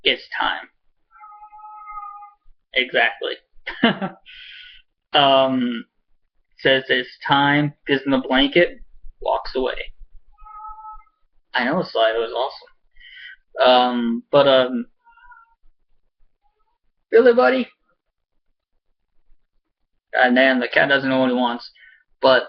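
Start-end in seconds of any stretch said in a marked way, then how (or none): 0.0-0.7 breathy whispered line, almost no voice; hushed whisper. Retold or imitated. Homeless woman whispering to Jax, hushed. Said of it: "and says". 17.1-17.7 high, loud exasperated question to the pet; exasperated at cat. Real, not acted. Vlogger exasperated at his cat interrupting, high and loud. Scolding the cat mid-video.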